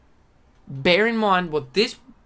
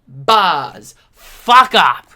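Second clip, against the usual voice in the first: loud, furious snap; too aggressive rant; aggressive outburst; 5 semitones lower, 9 dB louder, much slower than usual. Real, not acted. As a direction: spit it out in rage. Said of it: "I'm getting too aggressive".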